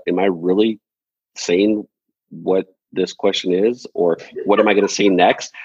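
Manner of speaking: lines lilting upward like questions; imitating a presenter's uncertain upspeak. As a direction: end each phrase unsure, rising. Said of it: "but is more kind of like a".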